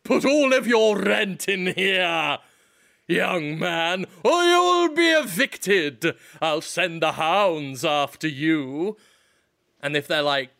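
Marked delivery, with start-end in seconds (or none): 0.0-9.0 slow, stern villain landlord; menacing old-timey landlord threat; gruff impatient scolding. Pretend. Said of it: "and you say".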